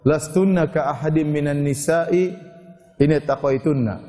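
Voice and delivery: slow, measured chanting of the verse; Quranic recitation. Real, not acted. Preacher reciting a verse to the women, slow chant. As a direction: recite the Arabic slowly, drawing out each word.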